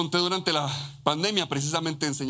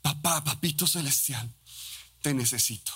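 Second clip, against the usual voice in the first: heartfelt prayer. Pretend. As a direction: pray it gently, like a child asking. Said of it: "y decimos".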